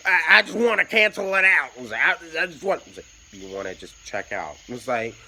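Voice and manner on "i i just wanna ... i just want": loud, higher southern drawl, slow; loud southern drawl, a bit higher. Retold or imitated. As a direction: imitate a rough southern drawl. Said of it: "southern drawl".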